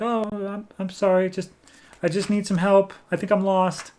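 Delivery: put-on high, hesitant little girl's voice. Lost girl asking a stranger for help, high childlike voice. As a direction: plead in an imitated girl's high voice. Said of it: "a little, uh, girl's voice".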